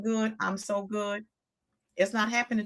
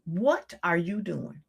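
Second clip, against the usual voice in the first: sassy self-reprimand; 3 semitones lower than usual. Retold or imitated. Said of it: "my reality kicked in and was like".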